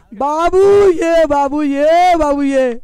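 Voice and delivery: slow, loud call fading down. Real, not acted. Commentator calling Babu back, slow and loud. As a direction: call him home, drawn out.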